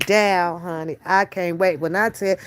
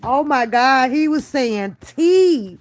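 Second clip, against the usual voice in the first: delighted realisation; 6 semitones higher, slower than usual. Real, not acted. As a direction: suddenly get it and light up. Realising toddler's word.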